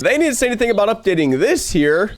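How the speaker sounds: stuffy nose from a cold; blocked nose. Real, not acted. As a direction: talk through a blocked nose. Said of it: "sorry if I sound a little stuffy".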